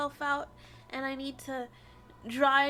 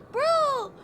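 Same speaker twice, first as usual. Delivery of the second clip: outraged yell; 7 semitones higher, 7 dB louder than usual. Real, not acted. Outraged at game twist.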